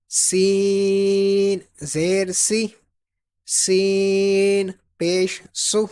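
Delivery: سین drawn out, whistled but not heavy; whistling thin S. Shown as a demonstration. Teacher drilling after the rule, thin whistling سین. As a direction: hiss the S in سین، سا، سی، سو, keep vowels thin. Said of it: "سین میں سیٹی کی آواز نکالیں گے".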